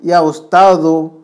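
"उस्तादो" slowly, ending on open u/o; slow model reading of "उस्तादो" without tanween; single damma ending. Shown as a demonstration. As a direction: draw out "उस्तादो" with no final n. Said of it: "एक ही दम्मा पढ़ेंगे".

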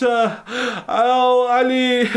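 tearful lament. Real, not acted. Lament over the slain son.

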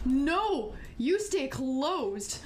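loud no, then a drawn-out order; startled, slow emphatic command; alarmed command. Real, not acted. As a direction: order it firmly in alarm, stretching the words. Orders game door to stay closed.

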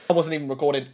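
low, soft, deflated realisation; stunned dismay. Real, not acted. Gamer realising the recording was off, stunned dismay. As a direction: say it small and sinking.

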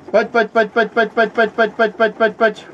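high, loud chanted call; calling the pigeons. Real, not acted. Breeder summoning his pigeons home, with high loud sing-song calls.

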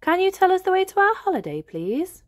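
put-on high, fast polite little girl; Peppa voice. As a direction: ask the sat-nav sweetly like a piglet. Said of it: "says Peppa".

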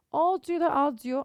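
audio first as odio, then aadio; American and British audio. Shown as a demonstration. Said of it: "Amerikan ve İngiliz".

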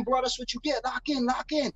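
high mock holler, held back in volume; imitated yelling. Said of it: "People are yelling at him from other cells".

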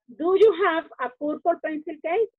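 bien dicho, "purple pencil case"; orden correcto. Shown as a demonstration. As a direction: modelo correcto para los niños. (la forma correcta, algo más fuerte)

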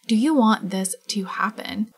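breathy whispered question. Real, not acted. Whispering to the audience about the couple. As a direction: hush it as if the Sims might hear. Asks Sims player about romance.

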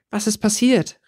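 high, alarmed question; anxious cry, pitched well up; worried call. A narrator's reading. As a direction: call out in sudden worry. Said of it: "rief Theresa sofort besorgt".

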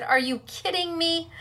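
laughing through the words; asking in disbelief, while laughing. Real, not acted. Laughing while retelling the exchange.

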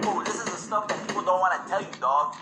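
lightly put-on cholo, reading tips aloud; a homie sharing secret magazine tips. Cholo homie reading Fortnite tips to the squad, hushed.

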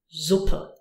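"Suppe" with the S buzzed like z; voiced S. Shown as a demonstration. Teacher repeating the example of S before a vowel, voiced. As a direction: say "Suppe" as zuppe. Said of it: "used when the S is followed by a vowel".

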